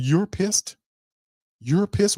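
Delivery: high disbelieving rising question; mocking a coach who says he's pissed, incredulous. Real, not acted. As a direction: scoff at him in disbelief, pitch shooting up. Mocking the coach's claimed anger.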